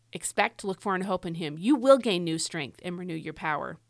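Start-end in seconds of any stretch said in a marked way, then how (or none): 1.6-2.8 "will" picked out above the words after it; stress on WILL. Shown as a demonstration. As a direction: lean firmly on "will". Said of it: "all the times in this verse where God says will".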